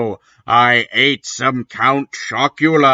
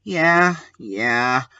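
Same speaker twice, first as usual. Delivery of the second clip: sad; 4 dB quieter than usual. Acted. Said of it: "I said sadly".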